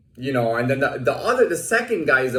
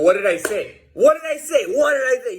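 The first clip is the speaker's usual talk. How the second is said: mild challenge; 10 semitones higher, 3 dB louder than usual. Retold or imitated. His challenge back to guard.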